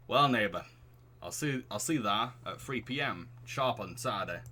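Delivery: neighbourly put-on Northern English; lightly acted Northern accent. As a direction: sign off as a Northern English dad. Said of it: "Why is the Northern accent fitting him".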